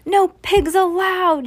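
high, loud, slow proclamation; shout. A narrator's reading. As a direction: shout each word out slowly and high. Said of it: "Eugenia shouted".

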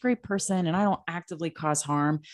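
smug ally. Retold or imitated.

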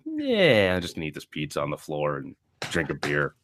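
a lazy sinner brushing it off; lazy shrug. Retold or imitated. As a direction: mumble like a slob on the floor. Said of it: "You're like".

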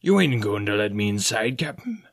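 a hint of a whiny pirate, rising on Captain; complaining. Silver complaining he is kept out, mild whine. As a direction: grumble it, hurt to be left outside. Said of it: "complained Long John".

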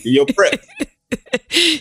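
words squeezed out through a high laugh. Real, not acted. Guest laughing at the host's stash of peri peri sauce, laughing. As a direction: crack up on the line.

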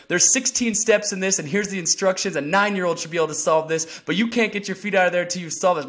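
mock drill sergeant. Trainer taunting him over the Lego box, loud orders. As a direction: needle him like a tough coach.

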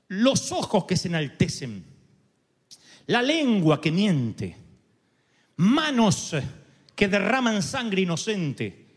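slow, measured listing; solemn scripture list. Acted. Preacher listing Salomón's seven warnings, slow and solemn. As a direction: lay out each sin deliberately.

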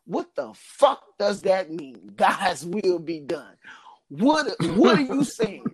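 rising, incredulous outburst, drawn out slowly; a man hearing his wife refuse money, disbelieving and rising; indignant disbelief. Retold or imitated. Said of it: "And I'm like".

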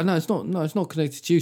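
high, hasty denial; mock denial. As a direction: brush it off a little too quickly.

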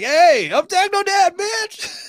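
high, drawn-out rowdy yell; hollered self-introduction. Retold or imitated. Man re-enacting his after-dinner boast, rowdy high yell. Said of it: "I'm like".

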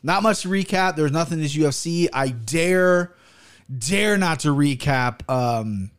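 barely opening the mouth; talking with mouth closed. Real, not acted. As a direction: speak through a stiff, sore jaw. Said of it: "I can't open my mouth much".

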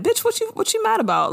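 high, fast incredulous sass; blunt friend. Retold or imitated. Giving a delusional friend the real, in fast high sass. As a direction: fire it off with sass. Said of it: "would you just be like".

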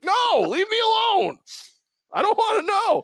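high, slow whining refusal; mock whiny complaint; high whiny protest. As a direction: whine it like a cornered kid.

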